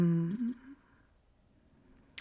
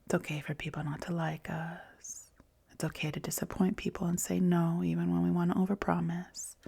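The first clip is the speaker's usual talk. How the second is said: soothing whisper. Acted. Mother comforting her exhausted inner child, whispered.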